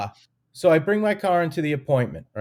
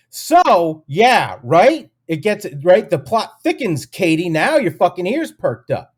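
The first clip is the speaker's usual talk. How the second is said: louder and higher, riled-up storytelling; worked up; 3 semitones higher, 6 dB louder, slower than usual. Real, not acted. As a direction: keep the outrage going, pressing the listener. Still worked up over the story.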